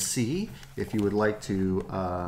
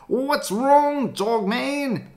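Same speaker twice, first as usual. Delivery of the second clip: much higher, louder concern; high worried voice; 13 semitones higher, 7 dB louder, slower than usual. Acted. Kid asking the dog what's wrong, high and loud.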